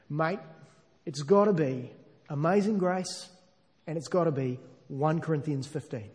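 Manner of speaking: a hint of broad Australian in a quoted voice; broad Australian accent. Preacher quotes a dying man planning his funeral, lightly broad Australian accent. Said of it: "broad Australian accent".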